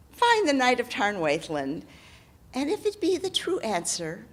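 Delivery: lightly voiced hag sending him off. Hag character voice.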